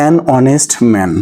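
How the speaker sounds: reads "an honest man" very slowly; slow example reading. Shown as a demonstration. Teacher reading the written example slowly to students. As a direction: stretch the phrase out for the class. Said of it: "এই যে নিচে লিখেছি আমি".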